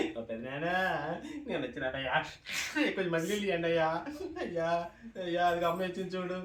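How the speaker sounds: lightly mocked sing-song lament; imitated funeral wailing. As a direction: mimic a relative keening beside the body. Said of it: "అని ఏం ఏడిసిందిరా".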